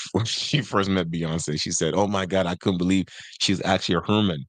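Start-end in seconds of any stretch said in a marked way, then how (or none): 2.0-4.4 human said as "Herman"; a rapper's pronunciation. Retold or imitated. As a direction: turn human into "Herman", with an r in the first syllable. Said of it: "This is how she said it".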